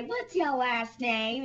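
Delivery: slow, lightly voiced questioner; a hint of coaxing a little girl; pageant questioner. Asking the contestant her name, slow mock sweetness. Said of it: "And they'd say".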